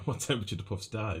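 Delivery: mock sinister reread of the question. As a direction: repeat the question with a light sinister edge. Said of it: "said in a sinister fashion".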